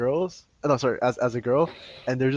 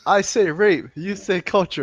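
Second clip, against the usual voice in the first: call-and-response; 6 semitones higher, slower than usual. Acted. Call-and-response chant lead.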